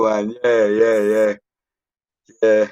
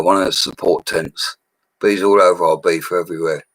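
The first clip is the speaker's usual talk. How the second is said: ordinary talk, nothing marked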